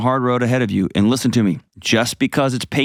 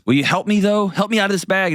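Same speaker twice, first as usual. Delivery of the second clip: higher, wheedling snake asking again; rattlesnake pleading; 10 semitones higher than usual. Retold or imitated. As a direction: coax him like a cheeky snake, pitched up. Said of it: "And then he goes".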